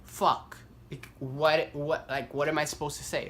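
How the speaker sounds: high, loud, drawn-out panic; shook inner panic. Retold or imitated. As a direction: stretch out the dread, then sputter. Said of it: "I was just so shook".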